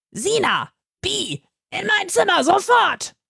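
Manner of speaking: high, sharp summons; calling from afar. A narrator's reading. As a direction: order them in at once. Director calls from window.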